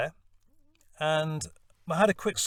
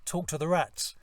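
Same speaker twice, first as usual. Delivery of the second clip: louder Cockney geezer voice, cheery and cocky; Jack, Cockney geezer; 4 dB louder than usual. Retold or imitated. At a workshop, playing sewer-loving Jack in a Cockney accent. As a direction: ham up a Cockney bloke's chatty patter. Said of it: "a Cockney geezer".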